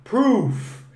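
Proof said slowly, the final F blown out with air. Shown as a demonstration. Teacher demonstrates to the live class: Proof with the F blown out. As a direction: blow air through the F at the end of Proof. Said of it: "Tem que assoprar pra pronunciar".

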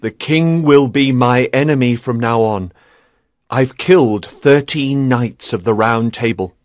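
low, heavy-hearted admission; sad. A narrator's reading. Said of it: "he told her sadly".

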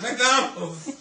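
put-on high, loud excited kid shout. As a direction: cheer it like a thrilled child. Kids shouting their dinner choice.

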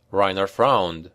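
plain reading voice

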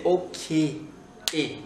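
Scottish OK, ending nearer ee; Scottish single-vowel ending on ok; Scottish accent. Shown as a demonstration. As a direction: say ok as a Scot, no diphthong. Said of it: "c'est pas ok ... C'est ok".

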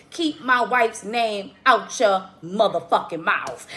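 slow, emphatic protective-husband warning; Will Smith. Retold or imitated. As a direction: spell out every word like a hard warning. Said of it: "Giving Will Smith".

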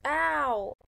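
mock yelp of pain; fake ow. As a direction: pretend it hurts. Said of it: "Not really ow".

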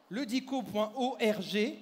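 ledico point org, each part slow and separate; spelled out slowly. Shown as a demonstration. Magician to audience, dictating the site address slowly. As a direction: dictate the web address slowly so the crowd can type it. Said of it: "tout le monde va aller sur ledico point org".

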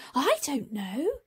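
unsure Harry. Acted.

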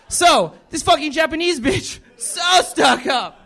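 hammed-up coworker ranting about a Japanese woman; coworker's rant. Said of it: "he's like".

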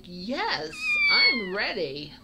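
high, loud, eager kitten. Retold or imitated. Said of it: "He's like".

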